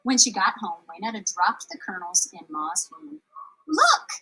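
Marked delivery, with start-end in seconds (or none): 3.7-4.1 excited, much higher call; bursting to show off; girl grinning at Ma; with a grin. Acted. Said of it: "she said with a grin".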